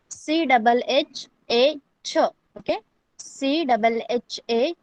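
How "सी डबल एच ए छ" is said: letters spaced for learners; slow spelling out. Shown as a demonstration. Teacher spelling छ slowly for online students. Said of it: "छ को कैसे pronounce करना है?".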